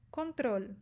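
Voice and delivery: "control" ending on a true l, not w; "control" with a clear final l; tongue-tip final L. Shown as a demonstration. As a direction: lift the tongue to finish the l of "control". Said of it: "O L ali, dobrando a língua".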